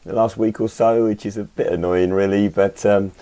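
hoarse from a cold; croaky, losing voice. Real, not acted. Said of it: "I've got a little bit of a croaky voice this morning".

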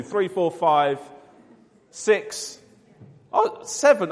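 rapid count like an auction; auctioneer. Pretend. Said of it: "I feel like an auctioneer".

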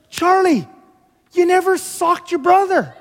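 high, loud, over-the-top congratulation; pumped parent. Acted. Father praising his stunned son, pumped up. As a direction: cheer it like a huge victory. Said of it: "your parent to be pumped".

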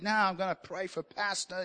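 imitated preacher slipping into an American accent; accidental American accent. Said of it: "he's suddenly become American there".

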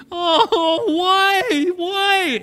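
"why" drawn out as a high, wailing groan; hammed-up groan. Preacher acting sailors' despairing groan, high and hammed-up. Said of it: "Can you imagine the groaning?".

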